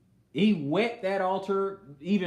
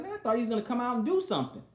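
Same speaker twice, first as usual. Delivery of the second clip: mock frustration; 8 semitones higher, much faster than usual. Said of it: "He was like".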